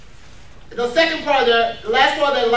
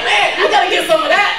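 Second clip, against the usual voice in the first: louder, higher mock-eager quote; eager onlooker; 4 semitones higher, 4 dB louder than usual. Onlooker reacting to a happy church member, playfully eager. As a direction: act out wanting in on her happiness.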